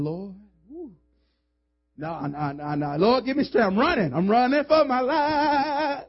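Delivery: loud half-comic plea, rising to a cry; mock panicked Joseph. Preacher voicing Joseph fleeing the temptress, mock panicked shout. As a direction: play Joseph begging God as he runs.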